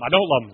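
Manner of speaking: "don't" stressed, pitched below the yes; dropped denial. Acted. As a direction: fall back down on "don't love him". Peter's wavering acted as alternation.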